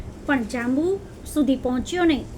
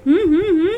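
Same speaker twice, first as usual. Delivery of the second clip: shaky tree humming hmm hmm; trembling hum; 4 semitones higher, 7 dB louder than usual. A narrator's reading. Shaken berry tree humming as she trembles. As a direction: shiver out a worried hum. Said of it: "કરતા તે બોલી".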